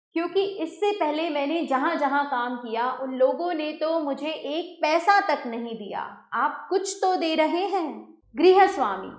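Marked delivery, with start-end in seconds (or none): 0.1-8.1 frightened. Acted. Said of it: "भयभीत स्वर में".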